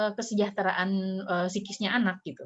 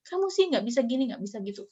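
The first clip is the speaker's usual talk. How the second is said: mock scolding; 4 semitones higher than usual. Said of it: "ngomel-ngomel gitu ya".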